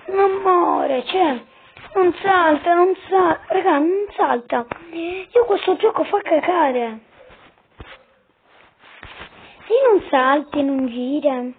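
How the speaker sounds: high, loud furious ranting; explosive italian cursing. Real, not acted. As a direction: rage at the glitching game. Game won't jump, raging at it. (imprecazioni esplosive in italiano)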